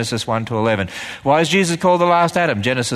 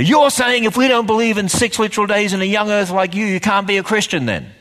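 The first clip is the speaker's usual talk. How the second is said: upset critic; 7 semitones higher than usual. Retold or imitated. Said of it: "I have some people say".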